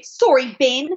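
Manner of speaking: lightly put-on Australian accent; accent warm-up phrase. Shown as a demonstration. Saying it to get into it, light Australian accent. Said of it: "to get into it".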